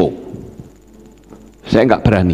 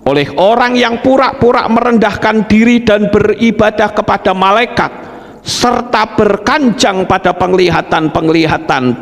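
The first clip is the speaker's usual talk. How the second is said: raised, declaimed Bible verse; scripture reading; 5 semitones higher than usual. Acted. Preacher reads Colossians to congregation, raised declaimed reading.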